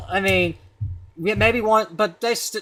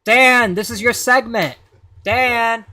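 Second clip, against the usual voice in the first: calling out; 4 semitones higher, 5 dB louder, slower than usual. Real, not acted. Calling out to absent co-host.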